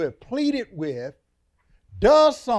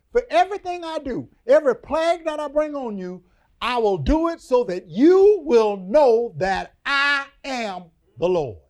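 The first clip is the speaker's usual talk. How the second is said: voice of God; 6 semitones higher, 7 dB louder than usual. Acted. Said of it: "He says".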